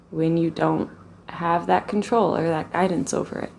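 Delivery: calm, even meditation voice with long pauses; guided meditation. Real, not acted. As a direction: guide them gently into the body, leaving space between phrases.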